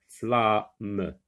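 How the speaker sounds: "Flamme" broken into fla, then mme; "Flamme" with a gap before the final m; split into syllables. Shown as a demonstration. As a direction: sound out "Flamme" in two parts. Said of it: "dans la première syllabe".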